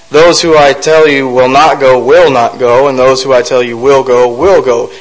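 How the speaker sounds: a light hint of a gentle father laying down the rule; lightly voiced God, firm but fatherly. God tells Gideon who will go, mildly fatherly. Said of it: "in a fatherly voice".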